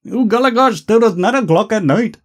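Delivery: mock Indian accent. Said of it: "I fucking nailed that accent".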